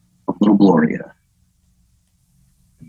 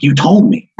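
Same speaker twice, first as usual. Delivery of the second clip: mock scream; 6 semitones higher than usual. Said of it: "then she starts screaming".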